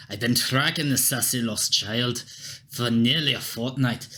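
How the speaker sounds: put-on a light Scottish guard accent; gruff Scottish soldier, lightly voiced. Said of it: "Don't know why everyone is fucking Scottish".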